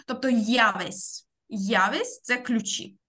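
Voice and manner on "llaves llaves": явесь with the в halfway between Б and В; явесь, a Spanish v between b and v. Shown as a demonstration. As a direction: say явесь slowly, softening в toward a Б. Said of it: "читається як щось між Б і В".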